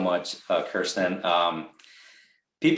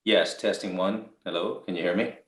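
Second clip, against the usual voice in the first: choppy connection; 2 semitones lower than usual. Real, not acted. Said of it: "it's very choppy right now".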